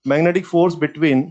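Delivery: drawn-out, measured dictation; slow dictation. Real, not acted. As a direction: say it slowly for note-takers. Dictating a heading to write down. (धीरे-धीरे लिखवाते हुए)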